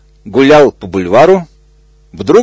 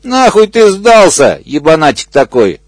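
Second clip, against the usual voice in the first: furious rant; 6 semitones higher than usual. Acted. Hippo curses the crocodile.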